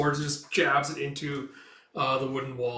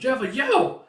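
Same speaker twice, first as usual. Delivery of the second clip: very high, loud whoop; battle yell; 11 semitones higher, 7 dB louder, slower than usual. Acted. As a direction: yell in the charge. Battle cry.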